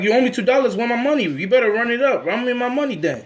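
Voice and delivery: high-pitched pushy demand; mock pestering creditor, voice up. Acted friend demanding money back.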